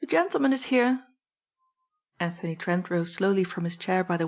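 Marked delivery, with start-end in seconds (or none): 0.0-1.1 higher, raised call down the stairs. Acted. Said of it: "Presently she called out".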